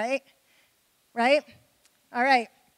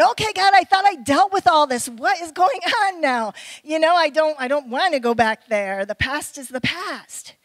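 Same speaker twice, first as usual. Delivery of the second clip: mock exasperated plea. Pleading to God retold.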